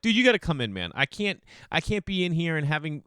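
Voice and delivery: a touch of frazzled urgency; stressed dad. Retold or imitated. Dad calling his son inside while overwhelmed, stressed. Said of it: "I'm like".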